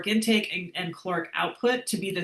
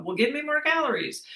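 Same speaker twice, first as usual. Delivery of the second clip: raised-pitch mock demand from your body; 8 semitones higher than usual. Coach voicing the body asking for more calories, mock demanding. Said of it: "your body will then go".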